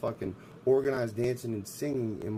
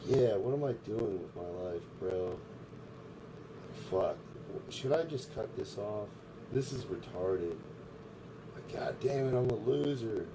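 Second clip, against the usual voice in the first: softer, mumbled inner voice mocking self-pity; mock inner monologue; 4 dB quieter than usual. Streamer mocking a movie inner monologue, softer mock self-talk. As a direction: murmur it like thoughts you overhear. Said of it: "there's this voice that's like".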